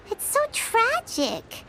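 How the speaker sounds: slow, quiet sorrow; sad. Real, not acted. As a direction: say it slowly, feeling pity. Reacting to tragic book passage.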